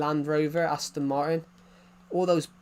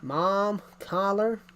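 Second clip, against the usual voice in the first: higher-pitched mock American accent; 4 semitones higher, slower than usual. Shown as a demonstration. Mimicking American words, higher American accent. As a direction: imitate an American with open vowels. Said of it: "It's like an American saying".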